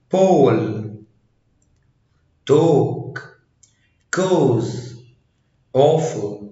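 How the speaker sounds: "بول", "توك", "كوز" with a long O; A pronounced O. Shown as a demonstration. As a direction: say awful starting on a round O. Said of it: "بتتنطق O".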